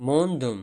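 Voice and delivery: Мондум with a rounded у vowel; street pronunciation. Shown as a demonstration. Teacher shows how people say Мондум. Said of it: "ки дар кӯчаҳо мегем".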